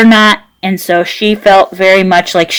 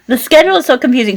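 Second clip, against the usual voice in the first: quick laughing aside; 4 semitones higher, much faster than usual. Real, not acted. Laughing restatement.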